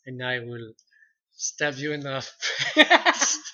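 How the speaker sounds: lightly voiced Oberyn in a Spanish accent. Shown as a demonstration. Quoting Oberyn Martell's threat in Spanish accent. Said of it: "my Spanish accent".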